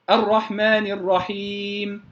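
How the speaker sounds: slow chant of الرحمن الرحيم, closing nasal not prolonged; no extra ghunna. Shown as a demonstration. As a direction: end الرحيم cleanly after the long vowel. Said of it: "لا أزيد في الغنة". (ترتيل الرحيم بلا زيادة في الغنة)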